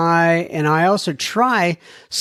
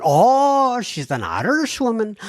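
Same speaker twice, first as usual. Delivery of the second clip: surprised; 6 semitones higher than usual. Real, not acted. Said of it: "as an Irish woman".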